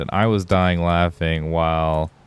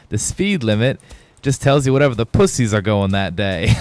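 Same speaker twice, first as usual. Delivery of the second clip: lightly imitated Aussie comedian voice; Australian accent; 3 semitones higher than usual. Retelling the comedian's punchline, mock Australian accent. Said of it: "how's the Australians always say it".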